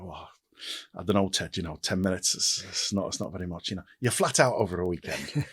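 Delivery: light Liverpool accent put on for a retold chat; Liverpudlian accent impression. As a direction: playfully mimic a Scouse TV executive. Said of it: "sorry about the accent. I like doing accents".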